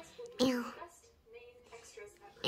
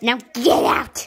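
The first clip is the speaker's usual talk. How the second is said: shouting; 7 dB louder than usual. Pretend. Doctor shoos away assistant.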